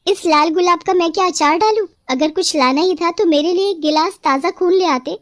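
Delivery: a hint of a bloodthirsty witch, then a laugh; witch mocking the rose. Possessed bride scorns the rose and asks for blood.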